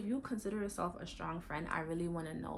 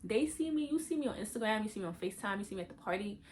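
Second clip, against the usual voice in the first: protesting to therapist; 3 semitones higher than usual. Retold or imitated. Arguing with her therapist that everyone sees her, protesting. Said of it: "And I'm like".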